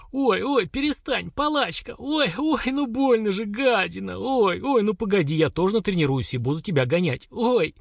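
high mock-pained ouches; yelping under a whipping. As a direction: yelp at each stroke, half-joking. Хагру порют, она ойкает. (ойканье от порки, понарошку)

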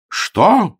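high, loud roared word. Acted. Augustine roars at the landlady, loud and high. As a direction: roar it back. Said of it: "взревел он".

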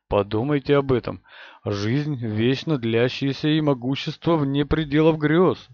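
a hint of a hoarse, hungry tempter; lightly rasped, lusting for power; hoarse, greedy voice. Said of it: "Голос Года был хриплым от неизбывного желания".

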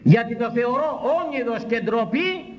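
high, slow proclamation; indignant declaration. Real, not acted. Preacher calling payment for preaching a disgrace, indignant cry.

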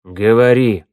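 loud, tight command; order through teeth. A narrator's reading. Snake-man orders Vorona to explain, through gritted teeth. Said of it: "приказал змеевик сквозь зубы".

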